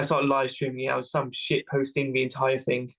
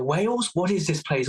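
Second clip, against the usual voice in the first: retold puzzlement; 4 semitones higher than usual. Puzzled commandos question him.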